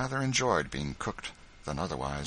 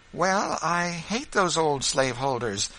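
put-on indignant boy; 9 semitones higher, 4 dB louder than usual. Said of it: "said the boy".

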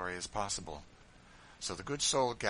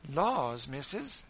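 chattering maid, higher and eager; voluble maid; 6 semitones higher, 6 dB louder, much slower than usual. Acted. Maid Jane gushes to her mistress, chattering. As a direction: rattle it off gushing. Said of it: "said Jane volubly".

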